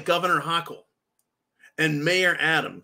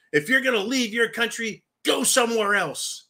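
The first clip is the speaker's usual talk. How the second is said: raised-pitch mock scolding yell; retold yelling; 5 semitones higher than usual. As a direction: imitate a governor telling people off. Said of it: "yelled at them".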